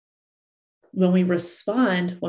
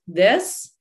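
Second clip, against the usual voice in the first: mock furious rant. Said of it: "all of a sudden you're like".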